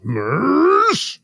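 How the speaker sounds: high, drawn-out yell of a name; anguished mock scream. A man raging at his rival, drawn-out mock scream. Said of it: "Captain Kirk screaming at Khan".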